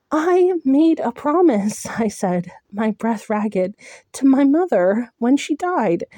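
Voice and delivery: high, strained, rising to a cry; anguished vow. Acted. Heroine telling Tamlin of her vow, high and breaking. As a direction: fight back tears as you explain.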